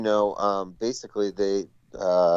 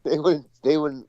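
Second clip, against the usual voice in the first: hammed-up high Southern accent; 10 semitones higher, 4 dB louder than usual. Shown as a demonstration. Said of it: "in a stupid Southern accent like this".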